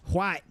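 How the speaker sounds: White said as "hwite", breathy h before the w. Shown as a demonstration. Streamer mocks Floridians, saying White as "hwite". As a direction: blow an h in front of White. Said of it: "the H in front of the W".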